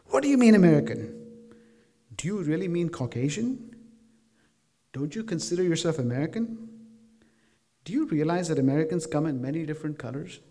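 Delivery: sharp, loud challenging questions; retold belligerent question. Mom retelling how she grilled a thirteen-year-old, belligerent. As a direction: press the kid hard, retelling a heated moment. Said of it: "I asked him belligerently".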